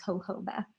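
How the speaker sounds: jojoba as "ho-HO-bah"; Mexican pronunciation. Shown as a demonstration. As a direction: say jojoba with J's as H's. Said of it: "it's probably the right pronunciation".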